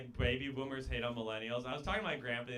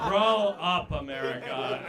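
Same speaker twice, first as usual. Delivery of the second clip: mock scolding shout; 9 dB louder, slower than usual. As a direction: yell "grow up" at the audience. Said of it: "crowd scolded".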